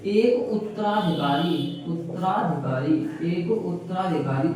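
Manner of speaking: उत्तराधिकारी spelt out in sound, slow and deliberate; slow dictation. Shown as a demonstration. Teacher dictating the third example, slow. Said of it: "उत्तराधिकारी किसे बोलते हैं?".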